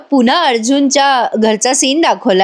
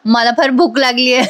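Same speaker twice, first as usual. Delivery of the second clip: laughing. Real, not acted. Narrator laughs quoting greedy girl.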